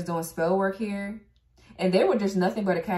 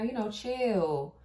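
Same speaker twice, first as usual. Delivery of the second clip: imitating laid-back stalling; slower than usual. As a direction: play someone dragging out the chill. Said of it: "I can see somebody saying that now".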